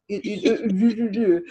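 mimicking a drawn-down French mouth noise; rough imitation of French mouth shapes; mimicked French mouth. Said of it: "like that almost".

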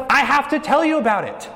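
a mild rush of urgency, as if he can't hold it in; eager proclaiming. Retold or imitated. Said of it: "he's like".

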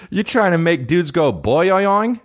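high, slow mocking voice with a laugh. Teasing a made-up woman in a high, slow mock voice. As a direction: tease in a squeaky sing-song.

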